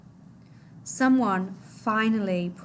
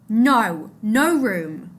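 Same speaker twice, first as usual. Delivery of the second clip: loud refusal; 7 dB louder, much slower than usual. Acted. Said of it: "man refusing from boat".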